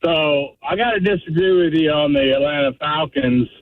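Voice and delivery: caller on speakerphone in a car; thin phone line sound; phone speaker. Real, not acted. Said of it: "I'm on speaker 'cause I'm driving".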